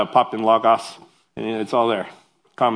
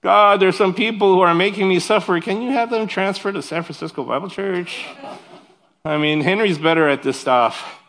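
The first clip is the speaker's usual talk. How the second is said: mock whiny prayer; 4 semitones higher than usual. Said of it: "that's how I kind of pray".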